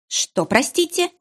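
high, slow startled question; taken aback. A narrator's reading. Stranger flirts, she is startled: high, slow taken-aback question. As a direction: caught off guard, asking him to repeat. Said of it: "оторопела я".

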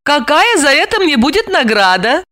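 asking with a glow of pride; beaming. A narrator's reading. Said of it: "Сияя". (сияя, игриво)

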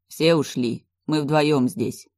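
hoarse voice. Acted. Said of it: "услышала его хриплый голос".

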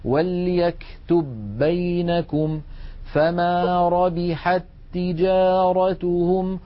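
slow demo with وليكتب بينكم said walyaktubbaynakum; ربحت تجارتهم said rabiḥattijāratuhum, one doubled ت; careful recitation; merged reading. Shown as a demonstration. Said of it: "فنقول".

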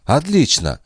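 high bright exclamation, a touch excited; high, fast excited outburst; exclaiming. A narrator's reading. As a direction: blurt it out as it dawns on him. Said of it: "воскликнул Пету".

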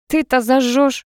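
a touch of mirth; laughing. A narrator's reading. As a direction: tease a friend with amusement. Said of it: "наконец рассмеялась Алка".

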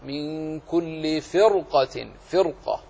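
"فرقة" with a heavy, full ر. Shown as a demonstration. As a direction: recite "فرقة" slowly, keeping the ر thick. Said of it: "فلذلك تفخم الراء ولا ترقق". (تفخيم الراء في "فرقة")

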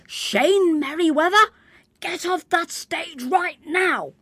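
a teacher losing patience from the wings. Acted. Teacher ordering Shane off the stage, insistent loud call. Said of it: "The voice from the wings was now more insistent".

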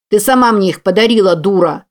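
angry shout. Acted. Kevin yelling in a fight.

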